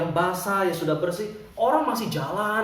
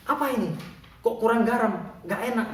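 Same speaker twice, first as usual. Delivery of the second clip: higher-pitched complaining husband; mock husband's criticism; 6 semitones higher than usual. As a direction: complain about the food, pitched up. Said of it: "malah dikritik lagi".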